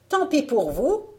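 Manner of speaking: high, loud retort; put-on merchant woman's reply; disguised peddler. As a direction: toss it back at a refusal. La marchande réplique au refus.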